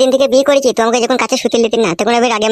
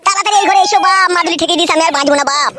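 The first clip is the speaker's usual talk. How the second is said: pleading cry; 5 semitones higher than usual. Acted. Begging father to come.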